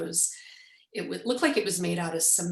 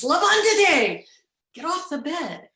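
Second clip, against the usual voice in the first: shouted order; 9 semitones higher, 9 dB louder than usual. Retold or imitated. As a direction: shout it across the room as the outraged owner. Angry hostel owner ordering guest up.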